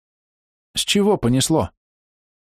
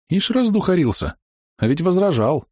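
wry mock surprise, pitched higher; 9 semitones higher than usual. A narrator's reading. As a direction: tease the man's sudden zeal. Narrator mocks the eager Mulatto.

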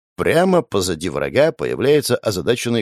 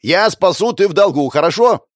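louder and higher, spelled out; shouting; 8 semitones higher, 5 dB louder than usual. Acted. Hero loudly spells out the deal to foreign girl. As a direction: shout each word so she understands.

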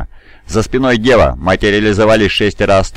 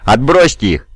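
higher-pitched, frustrated battle order; urgent yell; 6 semitones higher than usual. A narrator's reading. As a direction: urge the men to hold. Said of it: "вопил Дев". (отчаянная команда криком)

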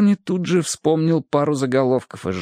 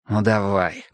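resigned; 4 semitones lower, slower than usual. Acted. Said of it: "сдался Гурни".

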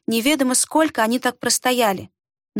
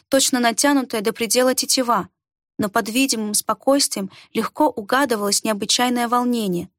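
ordinary delivery, nothing marked

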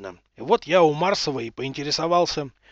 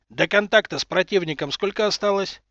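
stern question; 4 semitones higher than usual. Acted. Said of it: "строго спросил адмирал".

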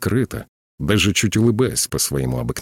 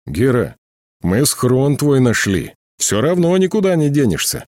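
raised, high-pitched call; shouting; 7 semitones higher, 3 dB louder than usual. A narrator's reading. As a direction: call out a warning, climbing high. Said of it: "крикнул Акимов". (выкрикнуто, на высоких нотах)

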